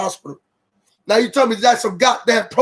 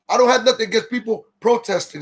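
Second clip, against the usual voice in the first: talking around a candy; words slurred by candy in mouth; mouth full. Real, not acted. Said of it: "I got a candy in my mouth".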